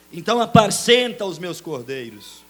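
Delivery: high, loud commanding voice; Jesus commanding. Acted. Jesus charging Peter to feed his sheep, loud. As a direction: command him to feed the flock. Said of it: "disse Jesus".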